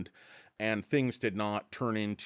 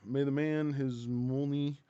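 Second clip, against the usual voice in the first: put-on slow film-villain Russian accent; 4 dB quieter than usual. Quoting KGB from Rounders, mock Russian accent. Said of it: "is that a Russian accent you're doing there".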